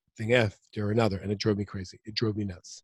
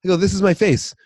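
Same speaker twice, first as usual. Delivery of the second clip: flustered, offended; 6 semitones higher than usual. Retold or imitated. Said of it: "I was like".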